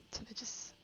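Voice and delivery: slow, soft unvoiced whisper. Real, not acted. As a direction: breathe it out slowly to yourself. Musing quietly during quest.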